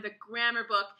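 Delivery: plain reading voice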